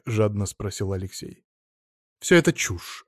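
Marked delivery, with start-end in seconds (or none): 2.2-3.0 curt cutting off. A narrator's reading. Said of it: "отрезала Нечаева".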